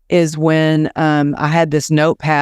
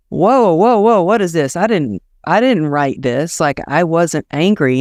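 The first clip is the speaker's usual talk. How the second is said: startled protest; 2 semitones higher than usual. Retold or imitated. Author reading her edited book, shocked and protesting. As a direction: recoil in disbelief at what the editor added. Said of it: "And I'm like".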